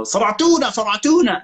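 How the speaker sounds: high silly mimicry; mocking someone stupid. Friend mimics the guy's stupid remark, high mocking voice. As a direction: chant it high like an idiot. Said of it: "he says something fucking stupid".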